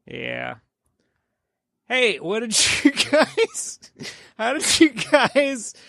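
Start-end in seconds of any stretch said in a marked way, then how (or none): 1.9-5.7 high, slow put-on host voice; mock host voice. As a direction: ham up the host question. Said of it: "mock host voice question".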